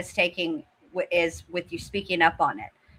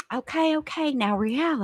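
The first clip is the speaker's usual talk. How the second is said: imitating Brittany; 5 semitones higher than usual. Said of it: "here comes Brittany".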